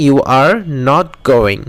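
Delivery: very slow, word by word; slow model sentence. Shown as a demonstration. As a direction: spell it out for the class. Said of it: "model sentence drill". (খুব ধীরে, প্রতিটি শব্দ আলাদা করে)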